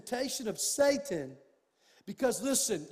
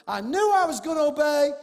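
emphatic; 6 semitones higher, 7 dB louder than usual. Real, not acted. Repeat raised for emphasis.

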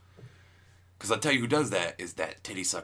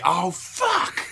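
higher startled oh fuck; sudden realization; 8 semitones higher, 4 dB louder than usual. Retold or imitated. Forgetful vegan realizing he ate pepperoni, higher. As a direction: catch yourself in horror. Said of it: "The forgetful vegan".

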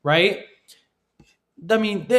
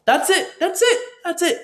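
emphatic repetition; 12 semitones higher than usual. Real, not acted. Hammering home the single goal.

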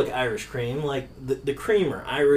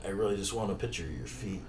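retold request; 11 semitones lower, 17 dB quieter, faster than usual. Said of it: "I was like".

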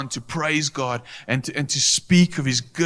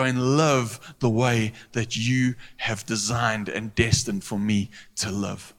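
heartfelt prayer. Shown as a demonstration. Models a prayer of repentance.

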